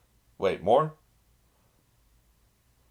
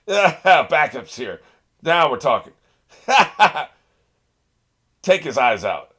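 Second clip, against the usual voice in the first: loud excited cheer, slowed; root for them out loud; hyped cheering; 5 semitones higher, 8 dB louder, slower than usual. Real, not acted. Viewer cheering on the reinforcements, loud and excited.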